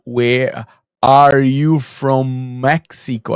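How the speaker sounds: imitating the neighbour's hugely drawn-out question; slow mimicking. Man recalling the neighbour's question to him, mockingly slow. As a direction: stretch every word out in mockery of her. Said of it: "hilário a relação da mulher".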